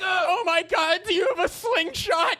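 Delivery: high, mock-horrified victim yell. Victim insulting the robber's weapon, high appalled yell. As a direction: yell in hammed-up high alarm. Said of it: "I'm yelling into the mic".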